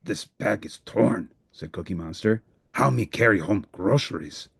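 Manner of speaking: a monster fretting over his groceries; worried Cookie Monster. Acted. Cookie Monster worried about torn bag.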